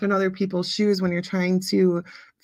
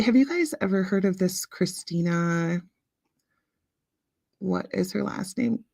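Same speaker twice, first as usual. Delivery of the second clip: whisper; 3 dB quieter than usual. Real, not acted. Quiet aside to the chat.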